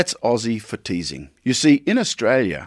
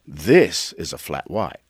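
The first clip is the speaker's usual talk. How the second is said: slower, lower put-on voice, This stressed; Dundee-style boast; 6 semitones lower than usual. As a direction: proudly show the real flat white, Dundee style. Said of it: "I thought".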